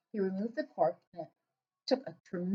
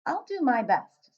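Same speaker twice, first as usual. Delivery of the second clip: patient; 4 semitones higher, 4 dB louder, slower than usual. Acted. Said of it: "Sophie said patiently".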